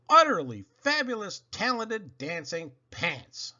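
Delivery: lightly hammed-up stage introduction; showman announcer. Host introduces the dancing pants, mild showman build-up. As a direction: present the act like a showman.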